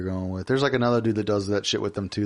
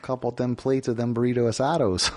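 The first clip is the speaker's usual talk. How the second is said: put-on Wisconsin accent. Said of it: "staffed by Midwesterners".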